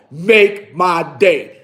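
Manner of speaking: slow, lightly voiced tough-guy line; a hint of Clint Eastwood, slow and deliberate. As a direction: lay it down slow like a movie hard man. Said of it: "He had that look".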